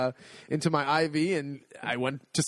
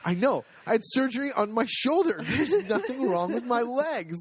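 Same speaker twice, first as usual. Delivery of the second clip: higher, half-laughing insistence; exasperated protest; 9 semitones higher than usual. Retold or imitated. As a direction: argue the obvious with a laugh. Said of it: "I go".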